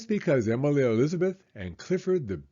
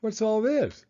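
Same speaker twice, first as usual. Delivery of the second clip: curious parent; 10 semitones higher than usual. Acted. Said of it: "came over to greet them".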